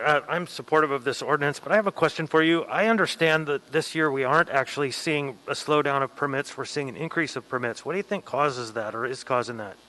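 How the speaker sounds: muffled behind a face mask; pulling mask down. Real, not acted. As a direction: speak through a mask, muffled. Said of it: "I will remove the mask briefly".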